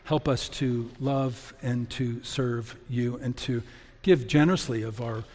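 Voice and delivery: prayer. Acted. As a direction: pray humbly to God for the congregation. Closing prayer.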